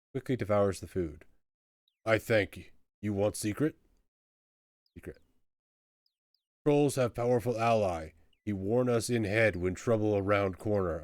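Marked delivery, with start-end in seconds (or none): 2.1-3.8 grateful, blunt troll; emphatic troll ending on a question; simple troll offering a secret. Acted. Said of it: "Troll, I mean". 6.7-11.0 earnest troll sharing a secret. Acted. Troll tells his secret.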